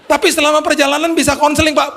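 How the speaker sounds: very high, whiny mock-crying voice; imitated tearful plea. Driver asks for counseling on the way, mock tearful. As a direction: beg as the weeping driver, played for laughs. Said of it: "Dia nangis".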